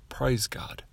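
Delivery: breathy hushed praise to God; soft reverent whisper. Real, not acted. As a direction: drop to a whisper of thanks.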